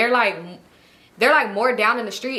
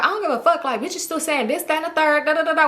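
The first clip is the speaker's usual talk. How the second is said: higher-pitched mock defiance; rowdy sister; 5 semitones higher than usual. Sister in the background defying everyone, mildly rowdy imitation. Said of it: "We just rowdy".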